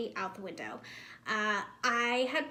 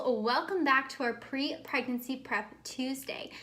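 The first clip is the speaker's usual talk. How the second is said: swollen mouth after wisdom teeth; talking funny; 3 semitones higher, 3 dB louder than usual. Real, not acted. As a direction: speak through a swollen jaw. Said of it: "why I'm talking funny".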